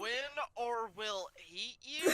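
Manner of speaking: high, questioning disbelief; incredulous echo. Real, not acted. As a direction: repeat it back as a stunned question. Repeats poster slogan in disbelief.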